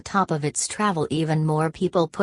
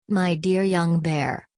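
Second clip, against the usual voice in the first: slow, expansive welcome; a gushing manager savouring each word; effusive greeting; slower than usual. Acted. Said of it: "he exclaimed".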